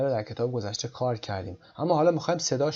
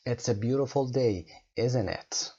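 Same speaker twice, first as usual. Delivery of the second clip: "isn't it" falling at the end; falling tag question; much slower than usual. Shown as a demonstration. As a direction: let the tone drop on "isn't it".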